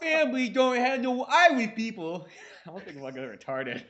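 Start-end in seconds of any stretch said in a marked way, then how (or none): 0.0-2.3 mock whiny kid. Mocking kid to mom.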